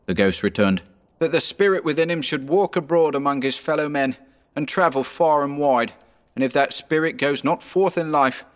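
high, mournful spectral lament; wailing ghost. A narrator's reading. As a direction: grieve like a doomed spirit.

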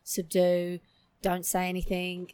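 slow, softened inner voice; subdued self-talk. Retold or imitated. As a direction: talk yourself down, slowly and softly. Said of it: "Just bring it down".

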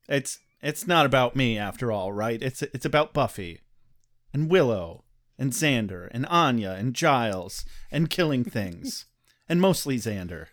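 low deadpan with a sarcastic edge; attempted monotone. Shown as a demonstration. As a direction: try for monotone, not quite getting there. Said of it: "Completely monotone. Starting right now".

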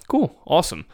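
high, loud put-on approval; mock enthusiasm. Friends humoring Cody in group chat, mock enthusiasm.

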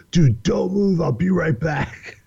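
eager promise with a laugh. Retold or imitated. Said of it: "He's like".

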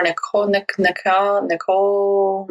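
Nicole tried haltingly in French, like "nee-KOH"; attempted French pronunciation. Real, not acted. Host unsure of guest's French name, attempted French pronunciation. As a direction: feel out "Nicole" as French, drawing out the last try. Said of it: "not very good at French pronunciations".

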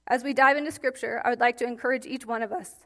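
strained, cracking voice. Real, not acted. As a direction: voice breaking up mid-phrase. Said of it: "I'm sorry, my voice is cracking".

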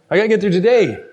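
lightly voiced pastor, matter-of-fact; imitating Pastor Mike. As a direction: echo the pastor's easygoing line in his voice. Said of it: "That's your pastor".

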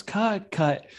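sharp call of cut; director yelling. Retold or imitated. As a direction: yell it like a film director. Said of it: "the director yells".

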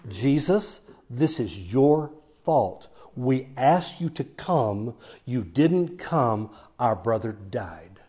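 accusing to his face. Retold or imitated. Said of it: "Right to his face".

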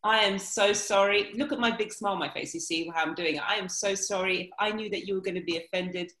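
lightly hammed-up, over-dramatic sorry; mild pantomime gushing regret; camped-up apology. Shown as a demonstration. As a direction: play a pantomime apology, half mocking. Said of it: "really camp it up and say".

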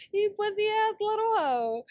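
high, loud gleeful insult; laughing taunt. Real, not acted. Laughing insult at the absent rival.

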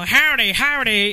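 imitating an Aussie attempting Texan; mock Aussie attempt at Texan greeting; Australian accent.

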